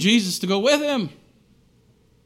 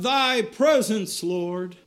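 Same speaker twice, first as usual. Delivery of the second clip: fervent cry; 4 semitones higher, much slower than usual. Retold or imitated. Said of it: "you can cry out".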